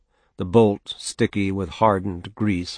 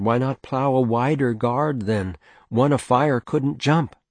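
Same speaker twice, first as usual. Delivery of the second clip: higher, reasonable wife; mother voice; 5 semitones higher than usual. Acted. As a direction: suggest it gently but firmly. Mother arguing with father.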